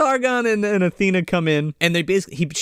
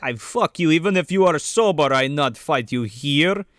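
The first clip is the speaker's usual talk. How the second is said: put-on Russian accent. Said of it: "'Cause he's Russian".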